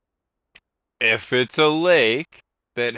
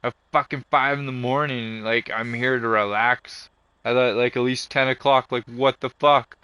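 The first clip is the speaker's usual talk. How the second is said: loud, irritated complaining at the desk; mock-bitching to the staff, voice raised; retold angry rant; 3 semitones higher, 3 dB louder than usual. Camper complaining to office staff about early mowing, loud and irritated. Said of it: "fucking bitched in the office saying".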